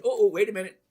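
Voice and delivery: whispered. Real, not acted. Sudden realization.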